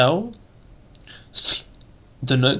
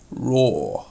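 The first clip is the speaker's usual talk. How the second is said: RAW intoned with a roughened colour; an expressive, sound-painted RAW; word-painting. Shown as a demonstration. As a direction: let RAW sound like its meaning. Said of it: "bring out the meaning of the word by its sound".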